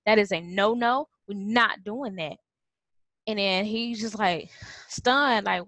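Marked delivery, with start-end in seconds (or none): 0.1-2.4 put-on stern "That is a no-no" to a small boy; real serious voice. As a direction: set a toddler straight, no playing. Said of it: "just real serious voice".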